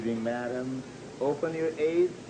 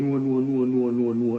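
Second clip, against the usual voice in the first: firm loud no; 5 dB louder than usual. Acted. Protective church treasurer.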